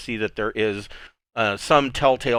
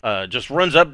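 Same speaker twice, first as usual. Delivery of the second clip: ordinary talk, nothing marked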